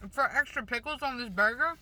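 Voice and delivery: words round a bite of food; mouth full. Real, not acted. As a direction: talk through a mouthful of burger. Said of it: "I talk with my mouth full".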